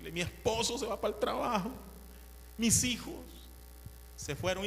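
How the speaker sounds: put-on old lady's voice. Old lady explaining her family left, lightly voiced. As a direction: chatter like a content old lady.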